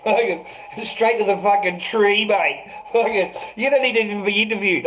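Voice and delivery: loud, high mock yelling; hammed-up angry heckling; mock shouted threat. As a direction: bellow it like a rowdy mob. Mocking what they'd shout at him.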